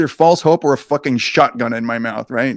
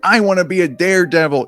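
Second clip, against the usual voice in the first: higher, louder desperate cry; scream; 5 semitones higher, 4 dB louder than usual. Acted. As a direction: lunge for it and shout. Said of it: "and scream".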